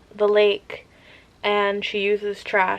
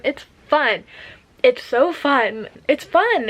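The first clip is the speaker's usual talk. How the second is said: gushing; 5 semitones higher, 3 dB louder, slower than usual. Real, not acted. Gushing about the book.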